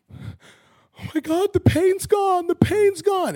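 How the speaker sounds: high, loud, overjoyed cry; amazed shout. Retold or imitated. Healed woman crying out to the crowd, high ecstatic shout. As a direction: shout it like the pain just vanished.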